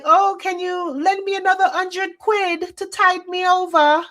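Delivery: high-pitched mock British accent, begging; hammy British accent asking for a loan; over-the-top British accent cadging money; terrible British accent. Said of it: "I know that's a terrible British accent".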